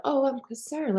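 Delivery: high, put-on concerned voice; sing-song concern. Showing passive aggression posing as care, sing-song concern. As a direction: lilt it up in mock concern. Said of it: "sing-song voice".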